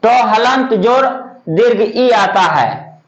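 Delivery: टी spelled as ट हलंत जोर दीर्घ ई, slowly; slow breakdown. Shown as a demonstration. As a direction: build टी step by step, slowly. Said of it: "टी में देखिए क्या होता है". (धीरे धीरे ट हलंत जोर दीर्घ ई)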